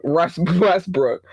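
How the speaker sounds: slow "Russ Westbrook" broken by a laugh; laughing correction. Real, not acted. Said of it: "I said Westbrook".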